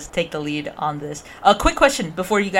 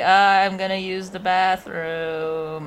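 slow, carefully casual voice; normal in public voice; 2 semitones higher, slower than usual. Acted. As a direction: act totally normal, slowly. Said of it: "I'm being normal in public" voice".

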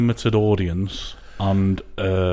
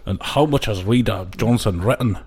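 badly faked Scottish accent; a half-hearted go at a Scottish investor; Duncan Bannatyne. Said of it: "This is the worst accent ever".

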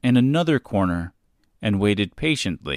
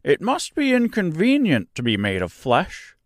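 creaky scarecrow; 8 semitones higher than usual. Acted. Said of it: "said the Scarecrow thoughtfully".

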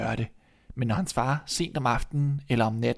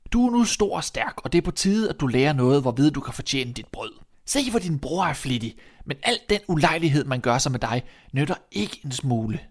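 raised, emphatic lecture to a son; scolding father. Acted. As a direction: tell the lazy son off. Father scolds his younger son. (formanende far)

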